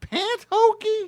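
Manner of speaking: squeaky high disbelief; incredulous. Acted. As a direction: repeat it in shocked falsetto. Incredulous repeat.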